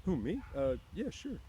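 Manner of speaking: high, caught off guard; flustered reply; startled Lenny. A narrator's reading.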